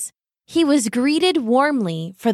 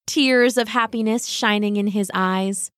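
ordinary delivery

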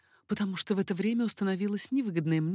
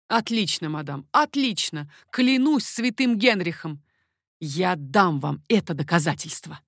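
louder, passionate vow; ardent exclamation; 6 dB louder than usual. Acted. King Henri vowing proof to the baroness, louder ardent exclamation. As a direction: swear it hotly to her. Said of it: "воскликнул Генрих".

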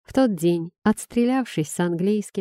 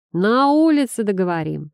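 shouted after; 2 semitones higher, 4 dB louder than usual. Acted. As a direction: shout down the corridor. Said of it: "крикнул вдогонку".

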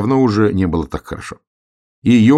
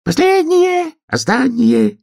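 very high, louder chant cry; hedgehog hollering; 4 dB louder, slower than usual. A narrator's reading. Hedgehog joins the dance, very high hollered chant. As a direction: shriek the chorus with joy. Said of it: "кричал ёжик".

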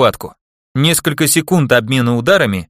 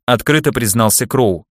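plain reading voice

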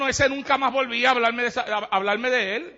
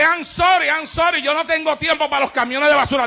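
louder, higher curt retort; rude brush-off; 4 semitones higher, 4 dB louder than usual. Acted. Churchgoer rebuffing the gossiping neighbour, louder and higher. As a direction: snap back to shut her down. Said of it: "no se lo digas así".

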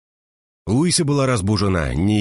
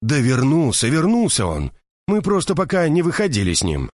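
high, agitated woman in a panic; distraught Mercedes; 7 semitones higher than usual. A narrator's reading. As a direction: burst out with the news, frantic. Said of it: "Мерседес заливалась слезами". (взволнованная Мерседес, голос выше обычного)

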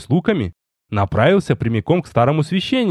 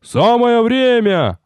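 much higher, slow drawn-out shout; cheering crowd; 10 semitones higher, 3 dB louder, much slower than usual. Acted. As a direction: call out in merry chorus. Воины хором кричат.

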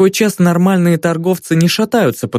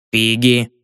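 meek; 4 semitones lower than usual. A narrator's reading. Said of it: "смиренно ответила старушка".

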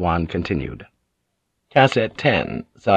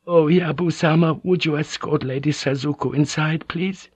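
stifling sobs; 7 semitones higher than usual. Acted. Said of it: "Kiri tried to stifle her sobs".

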